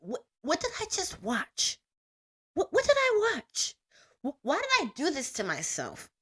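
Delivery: retold shock, stammering what did I watch; stunned disbelief. Recalling her reaction to the ending, stunned disbelief. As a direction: replay the stunned moment after the ending. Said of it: "I was literally just like".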